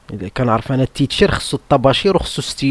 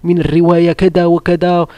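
proud son; 3 semitones higher than usual. Retold or imitated. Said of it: "وقال".

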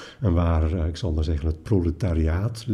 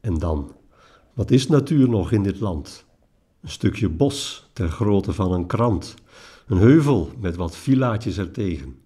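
poetry recitation. Acted. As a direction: recite the verse line by line, with pauses. Recites a poem.

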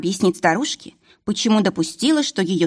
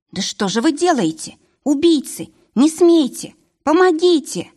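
desperate scream building; 8 semitones higher than usual. Acted. Varvara screaming at the killers, rising to a high scream. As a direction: climb into a shrieking cry for help. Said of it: "Варвара закричала".

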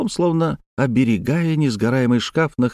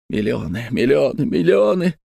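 choked muttering that climbs in pitch; gasping voice; 2 semitones higher than usual. A narrator's reading. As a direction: repeat it obsessively, rising each time. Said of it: "задыхающимся голосом".

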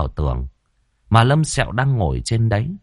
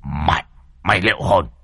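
lower, gruff warning; scolding threat; 5 semitones lower than usual. A narrator's reading. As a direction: growl it back over the shoulder. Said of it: "quay lại chửi".

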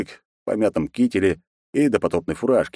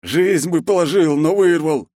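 slow, menacing mutter of a headman, high voice kept; a hint of a malicious growl; spiteful growl; 10 semitones higher, 5 dB louder, slower than usual. A narrator's reading. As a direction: grumble the threat slowly. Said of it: "злобно проурчал Войт".

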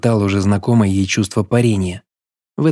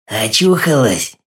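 slow, sneering question; mock her with a slow sneer; snide; slower than usual. A narrator's reading. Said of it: "ехидно спросил Авдеич".

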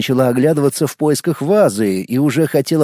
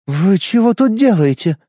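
surprised; 6 semitones higher than usual. A narrator's reading. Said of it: "удивлённо спросила девушка".

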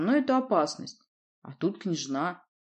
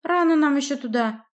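put-on high, loud surprised girl; 9 semitones higher, 6 dB louder than usual. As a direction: caught off guard and protesting. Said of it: "удивлённо сказала Надя".

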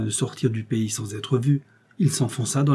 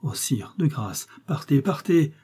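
urgent plea; 3 semitones higher than usual. Acted. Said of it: "s'écria la comtesse".

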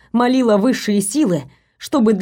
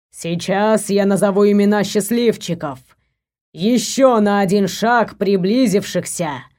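regal king voice. Acted. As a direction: proclaim it like a king before the court. King addresses the court.

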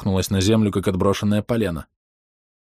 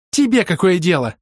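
high loud defiant snap; high defiant girl; angry retort; 11 semitones higher, 5 dB louder than usual. A narrator's reading. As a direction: throw it back at him. Рёка snapping back.

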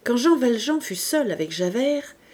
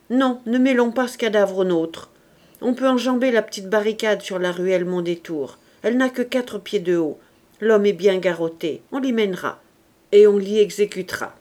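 louder, firm orders building to the last line; commanding leader; 4 dB louder than usual. Acted. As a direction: give the order for an execution, firm and rising. Enjolras ordering the spy's execution.

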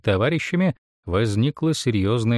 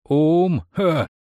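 loud, higher, cutting laugh; scornful laugh; 5 semitones higher, 3 dB louder than usual. A narrator's reading. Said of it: "испустил ещё один режущий ухо смех".

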